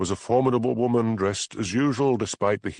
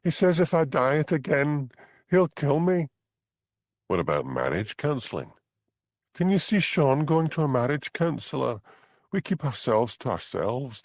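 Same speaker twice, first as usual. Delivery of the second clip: higher, light voice for Bella, desperate; young Highland wife, higher pitched, fed up; 7 semitones higher than usual. Acted. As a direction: play the trapped young wife pleading. Bella's lines in dialogue.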